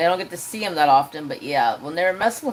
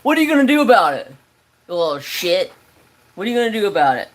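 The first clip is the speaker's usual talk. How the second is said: mock taunting yell; 3 semitones higher, 4 dB louder, much faster than usual. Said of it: "I'm like".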